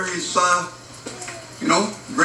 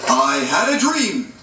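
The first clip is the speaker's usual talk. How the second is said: slow, drawn-out quotation; slow quote recital; slower than usual. Acted. Teacher quizzing the class with a saying, slow recital. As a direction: recite it slowly, stretching the words.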